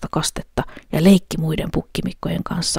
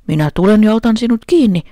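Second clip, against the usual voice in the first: louder, higher troll threat; troll shouting; 5 semitones higher, 6 dB louder than usual. A narrator's reading. Troll shouting at the little goat, loud threat. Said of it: "huusi peikko".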